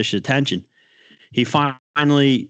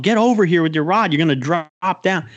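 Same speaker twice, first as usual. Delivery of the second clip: retold call; 6 semitones higher than usual. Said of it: "I'm telling".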